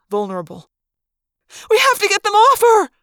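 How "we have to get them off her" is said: high, loud panicked cry; Cassie. A narrator's reading. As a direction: cry out to save a friend. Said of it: "Cassie cried when she saw me".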